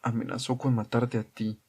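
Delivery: soft, controlled calm; understated, even-tempered reply; insufferably calm. A narrator's reading. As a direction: keep it quiet and maddeningly calm. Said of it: "hablaba con una calma insufrible".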